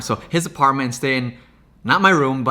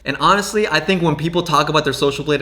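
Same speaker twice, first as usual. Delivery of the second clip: normal talking voice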